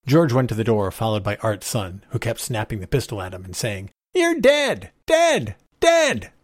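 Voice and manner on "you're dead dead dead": put-on very high child's cry, repeated; taunting little boy. A narrator's reading. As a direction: chant it like a boy firing a toy gun. Boy snapping toy pistol at him.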